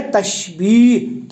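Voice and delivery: تشبیہ said slowly as tashbih; تشبیہ spelled out carefully in speech, tashbih; correct pronunciation. Shown as a demonstration. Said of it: "صحیح اس کا تلفظ ہے".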